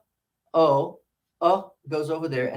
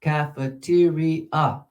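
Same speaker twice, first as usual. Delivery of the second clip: cafeteria said slowly, each syllable drawn out; slow syllable demo; much slower than usual. Shown as a demonstration. Teacher modelling cafeteria slowly for the class. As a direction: spell out cafeteria syllable by syllable for students. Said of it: "Five syllables".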